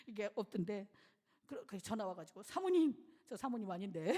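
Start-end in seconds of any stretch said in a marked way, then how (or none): 2.4-2.9 calling out. Retold or imitated. Deacon calling her.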